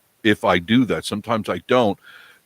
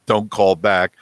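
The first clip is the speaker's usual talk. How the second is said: laughing. Retold or imitated. Joking quote, laughing.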